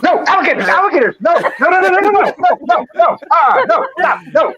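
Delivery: very high, frantic squealed protests; mock panic. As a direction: play it panicking, pitched right up, rattling out the words. Player panics while dunked among alligators.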